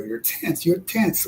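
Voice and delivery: lightly imitated Venezuelan accent. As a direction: quote her with a hint of a Venezuelan accent. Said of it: "with that little Venezuelan accent".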